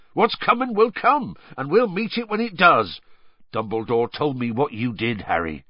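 high-pitched resolve, settling as it turns personal; Hagrid, stoutly reassuring. A narrator's reading. Hagrid encouraging Harry, stout then settling. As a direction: declare it bravely, then ease off.

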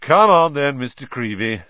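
beaming, showy invitation; beaming joviality. A narrator's reading. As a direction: start loud and jolly, then ease off. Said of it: "beaming at Colin".

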